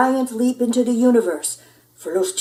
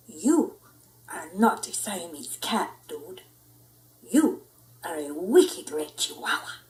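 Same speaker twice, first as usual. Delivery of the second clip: put-on Spanish accent; 3 semitones lower, 3 dB quieter than usual. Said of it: "using his very best Spanish accent".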